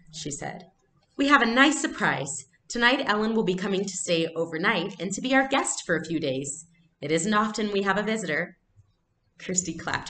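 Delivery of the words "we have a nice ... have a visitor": mother masking worry; cheerful mother. Acted. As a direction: sell the surprise with forced cheer. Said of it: "but her voice was cheerful".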